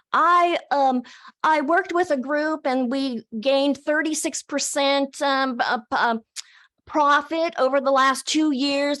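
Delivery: hesitant pretend pitch, stumbling on ums; mock interview answer. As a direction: act out fumbling for an impressive answer.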